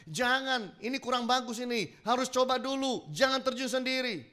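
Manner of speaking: high, insistent caution; retold warning. Other skydivers warn him, retold.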